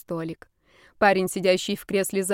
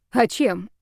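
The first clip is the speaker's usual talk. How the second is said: usual speaking voice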